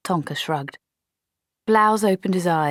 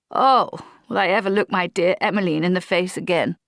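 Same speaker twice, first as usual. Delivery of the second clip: wallow in melodramatic self-pity; a hammed-up cry of despair from the officer; despairing young officer; 3 semitones higher than usual. Blouse laments his failure.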